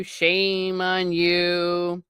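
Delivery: slow, heavy mock reproach; drawn-out mock scolding. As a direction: shame on you stretched very slowly. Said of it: "they talk in his Yorkshire dialect".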